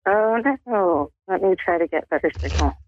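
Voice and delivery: usual speaking voice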